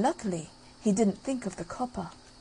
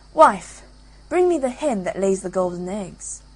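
ogre shouting; 4 dB louder than usual. Acted. Ogre orders his wife.

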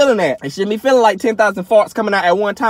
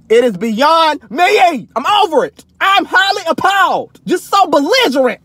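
mock outraged yell; 7 semitones higher than usual. Real, not acted. Vlogger rants about disrespectful cars, mock outraged yell. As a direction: play up being appalled. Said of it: "Let me stop yelling".

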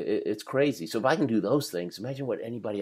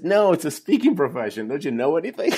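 higher, louder retold principal in his face; hammed-up principal yelling, higher and louder; mock principal shouting; 6 semitones higher, 6 dB louder than usual. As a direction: throw it at him like the principal did. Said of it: "He starts shouting at me".

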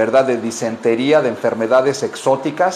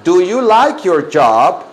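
slow, drawn-out teacher model; deliberate, word-by-word language drill; slow repeat-after-me; 2 semitones higher, 3 dB louder, slower than usual. Shown as a demonstration. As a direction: stretch each word for the class to copy. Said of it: "Repitan esto, digan".

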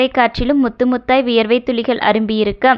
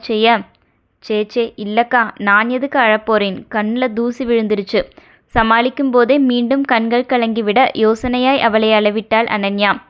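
steady, fuller audiobook reading voice; story narration. A narrator's reading. Narrator reading a romance novel chapter to listeners, steady storytelling voice. Reads a Tamil novel aloud.

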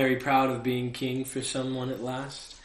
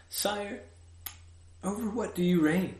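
put-on curious child; 7 semitones higher than usual. Prince asking, raised voice.

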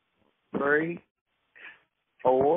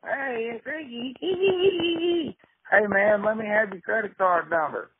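slow, much higher, sing-song mock of a friendly stranger; imitating Ricky; 5 semitones higher, slower than usual. Caller mocking the phone agent Ricky with a slow, high, sing-song voice. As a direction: drawl it out high like a chummy scammer. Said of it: "if I called you".

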